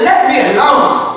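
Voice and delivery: rising, disbelieving echo of the quote; incredulous question. Retold or imitated. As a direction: ask it as if you can't believe God said it. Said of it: "Can you imagine God telling Moses".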